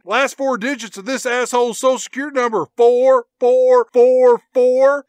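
loud, emphatic mock radio rant; taunting henchman. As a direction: broadcast his secrets with relish. Henchman taunting boss over radio.

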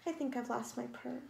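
small, soft worried kitten. Acted. Kitten softly tells mother she lost her purr.

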